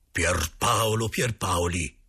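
slow, drawn-out séance call; summoning the spirit. Acted. The medium calling the dead man's spirit, slow and solemn. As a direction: call the name slowly into the dark.

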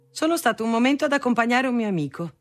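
high, light, breezy reply; fresh, cheerful, light. A narrator's reading. Son excusing himself to angry father, cheerful and light. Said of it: "con la sua voce fresca, ilare e leggera".

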